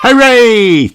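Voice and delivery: high, loud happy cheer; cries hooray. A narrator's reading. Danny cheering that Daddy is coming home. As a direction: cheer like an excited pup. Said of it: "cheers Danny".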